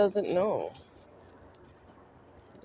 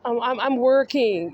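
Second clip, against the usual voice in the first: mock Justin; 4 semitones higher than usual. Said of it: "are you trying to say".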